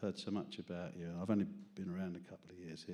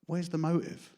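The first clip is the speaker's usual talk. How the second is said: mock detective; 9 semitones higher, 6 dB louder than usual. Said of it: "then I thought".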